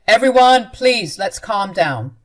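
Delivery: calling out loudly. Acted. Husband shouts to stop wife and mother fighting: loud plea. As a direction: shout over the fight then settle it.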